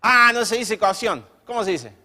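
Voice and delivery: lightly voiced unbothered neighborhood guy; humble neighborhood guy. Juancito being corrected, asks openly how it is said. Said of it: "Juancito era del barrio".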